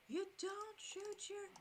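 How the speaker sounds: mild mock yell. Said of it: "yelling at me about my rifle".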